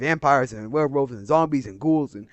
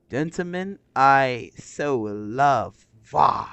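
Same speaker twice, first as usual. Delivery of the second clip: drawn-out mock Major speech; slower than usual. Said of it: "reciting the Major's speech".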